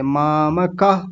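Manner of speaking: मामकः very slow with each syllable full; correct recitation. Shown as a demonstration. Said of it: "ऐसे बोलेंगे".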